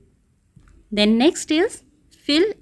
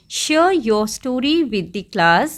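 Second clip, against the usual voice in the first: slow, word by word; slow dictation; much slower than usual. Shown as a demonstration. Teacher slowly reading the homework task to pupils. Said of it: "reading the task aloud".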